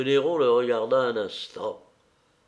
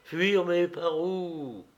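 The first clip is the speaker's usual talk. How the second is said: cold sneer; 6 semitones higher, much slower than usual. A narrator's reading. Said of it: "toujours pâle et froid".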